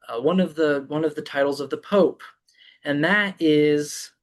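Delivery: ordinary talk, nothing marked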